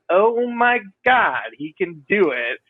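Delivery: imitating awed bandmates, high drawn-out start settling down; retold amazement, stretch out the opening slowly; amazed bandmates. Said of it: "kinda light up, and they're like".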